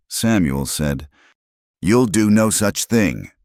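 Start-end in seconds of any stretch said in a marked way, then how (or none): 1.8-3.3 mildly sharp, pitched-up refusal. A narrator's reading. May overruling Samuel's plan to ride, sharply. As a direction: put your foot down, a touch higher. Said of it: "May said sharply".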